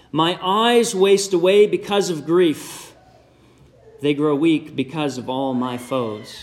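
a hint of a weary, grieving psalmist, slow; mournful psalmist. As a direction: read the lament slowly, as a tired mourner. Reads the psalmist's lament aloud.

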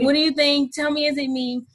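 bursting to hear her answer; eager question. Retold or imitated.

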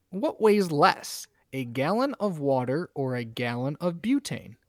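slow, drawn-out cheesy setup; embarrassing dad joke. Pretend. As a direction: tease the question like a cheesy riddle. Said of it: "move on to my dad joke".

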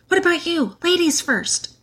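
high-pitched, voiced boy's stage whisper; whispered urging. A narrator's reading. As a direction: nudge a sister forward in a mock whisper. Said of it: "whispered Peter".

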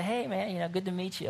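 acting out an easy first greeting; friendly greeting. Acts out greeting a guy.

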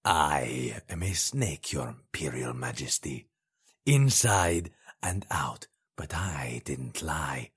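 slow, hissing whisper; whispered taunt. Acted. Potentate whispering to the dying Emperor, slow and voiceless. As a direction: lean in and whisper it, slowly.

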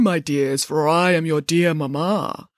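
sugary, low-pitched coaxing; honey-softened voice. A narrator's reading. Wolf posing as dear mamma, honey-softened voice. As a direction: wheedle like a wolf playing mamma. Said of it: "honey-softened voice".

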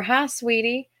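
sugary little hello, lifting at the end; sweet Southern greeting. Shown as a demonstration. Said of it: "I'm sweet".

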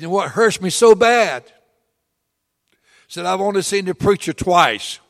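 put-on wounded old deacon, loud and aching; anguished old man. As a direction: voice the widower's pain, rising to loud pleading. Grieving widower pours out his hurt.

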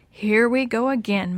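ordinary delivery

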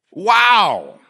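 loud, high "Wow!" of amazement; surprised wow. Real, not acted. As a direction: sound truly amazed. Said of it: "preacher's own surprised exclamation".

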